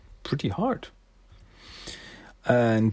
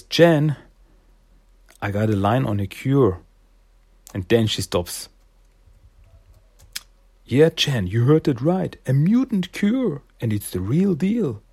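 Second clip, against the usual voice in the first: enticing Silas; 3 semitones higher than usual. Acted. Silas luring Jenny back with a cure, high tempting voice. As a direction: dangle the bait.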